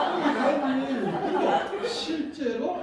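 talking through laughter; laughing. Real, not acted. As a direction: laugh out the words. Laughing at own joke.

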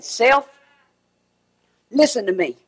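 low, slow self-persuasion; mock inner voice, drawn out; talking to self. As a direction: coax your own soul slowly. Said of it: "he was saying".

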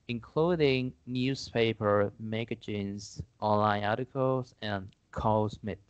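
slow, deliberate English read-out; measured classroom English; model exam answer. Acted. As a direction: answer slowly, as a demonstration for learners.

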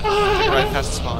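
high, slow and laughing. Real, not acted. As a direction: stretch it out through a laugh. Laughing direction repeat.

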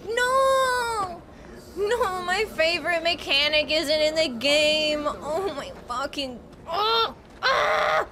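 real shock at a missing feature; dismayed outcry. Real, not acted. Streamer shocked that her favorite mechanic is gone, crying out. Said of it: "I'm genuinely so upset".

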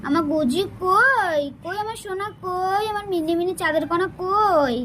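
slow, doting coo to a pet. Real, not acted. Mother coos to sulking pet. (আদুরে গলায় ডাকা)

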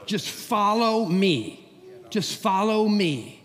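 slow, gentle voice of God leading; a calm call to follow, drawn out slowly; a hint of God speaking. God urging the fearful believer, slowly and gently. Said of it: "I think he's saying".

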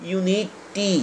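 ইউনিটি spelt out by sound, ending on a held "ee"; softly spaced "iu-ni-tee" for ইউনিটি; final vowel shown. Shown as a demonstration. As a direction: draw out the ই at the end of ইউনিটি. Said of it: "টি এর পরে দেখো".

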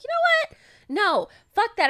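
mock furious no; retold outburst. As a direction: blurt it out, done with him. Retelling her blow-up.

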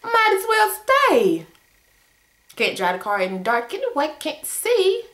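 frustrated resignation. Retold or imitated. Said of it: "I'm going home and say".

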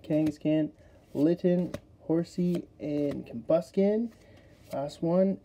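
talking through hiccups; hiccuping between words. Real, not acted. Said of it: "Oh, I got the hiccups".

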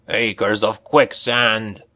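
slow dwarf curse; cursing dwarf. Acted. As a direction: drag the curse out slowly. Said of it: "Olgrin cursed".

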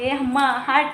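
loud mock shooing call; imitated shooing. Mother imitating her daughter shooing a cow, loud mock command. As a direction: shoo a cow away, imitating a bossy toddler. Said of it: "तरी हम्माला म्हणते".

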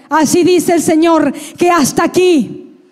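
re-enacted prophetic declaration; prophesying. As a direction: hammer out the repeated phrase as a decree. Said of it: "empezó a profetizar".

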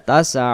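তাসআ with the final "a" squeezed in the throat; squeezed throat ayn. Shown as a demonstration. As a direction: constrict the throat on the last syllable of তাসআ. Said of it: "গলা চেপে বাদি হবে".

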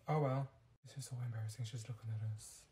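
soft, low embarrassed murmur; mortified hush. Acted. Girl mortified that the stranger sees them, hushed. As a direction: sink down and say it under your breath.

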